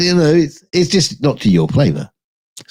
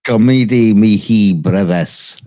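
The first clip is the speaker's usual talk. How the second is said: slow Latin attempt; slower than usual. Shown as a demonstration. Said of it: "I think I'm saying that".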